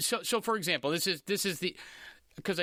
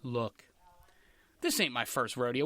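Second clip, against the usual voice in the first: put-on half-serious take on a gruff old pitchman; mild mock Selleck; Tom Selleck impression; 7 semitones lower than usual. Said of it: "he starts off".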